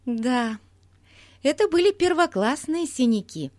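put-on high, eager child voice; bubbly young girl, proud; excited little girl. A narrator's reading. Голос Бетси в сказке. (восторженная девочка)

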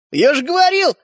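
loud, high gloating exclamation; exclaiming. A narrator's reading. Little brother gloating to grandma about Arisha. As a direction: crow triumphantly. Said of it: "воскликнул Родька".

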